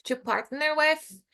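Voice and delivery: to partner with said slowly, falling on with; slow repeat with a falling end. Shown as a demonstration.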